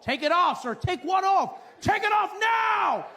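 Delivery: high, loud back-and-forth yelling; escalating argument at security; guard yelling and traveller yelling back; shouted exchange. Retold or imitated.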